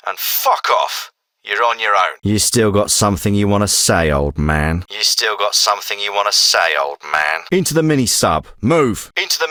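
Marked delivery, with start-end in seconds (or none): 1.4-7.4 menacing challenge. Acted. Challenging an old man to speak, menacing. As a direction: challenge that drops low at the end.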